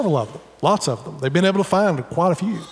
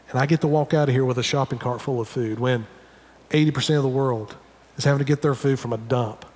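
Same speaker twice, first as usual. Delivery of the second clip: lowered, conversational prayer of gratitude; thankful prayer; 4 semitones lower than usual. Acted. Preacher models thanking God while shopping, low grateful prayer. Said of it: "pausing and saying".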